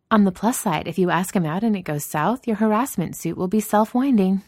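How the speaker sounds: Danny, smirking tease. Acted. Voices Danny smirking at Jensen.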